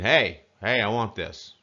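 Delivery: rude demand. Shown as a demonstration. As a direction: demand it bluntly, as an example of rudeness. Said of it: "It's not like saying".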